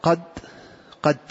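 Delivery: "قد" ending in a voiced d instead of ط; dal replacing ta. Shown as a demonstration. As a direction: say "قد" as qad, closed on a dal. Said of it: "بإبدال الطاء دالا".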